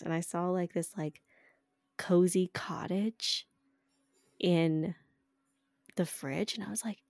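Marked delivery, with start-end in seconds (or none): 2.0-6.5 whispered puzzlement. Retold or imitated. Unsure label of mystery food.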